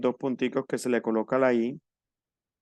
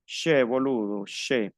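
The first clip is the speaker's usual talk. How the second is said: light Argentine "che, boludo" with a "sh" sound; imitating Argentines, che said as "she"; Argentine-style che; slower than usual. Shown as a demonstration. Teacher likens French CH to Argentines, lightly Argentine "sh". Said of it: "como los argentinos".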